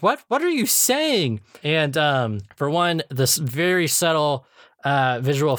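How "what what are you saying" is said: slow high mock bafflement; imitating SpongeBob. Retelling SpongeBob on the phone, slow high puzzled voice. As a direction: act confused on the phone. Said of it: "And he's like".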